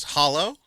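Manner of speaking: "Hollow?" lifted at the end like a question; odd questioning tone. Retold or imitated. Jack pointing at the door in a retold film scene, questioning. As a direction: say "Hollow?" as an oddly rising query. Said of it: "I said that really weird".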